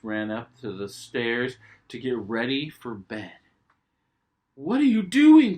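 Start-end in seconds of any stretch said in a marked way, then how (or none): 4.6-5.6 high, loud curious call; high questioning call; Daddy's voice. Acted. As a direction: call out with playful surprise. Daddy Pig asks.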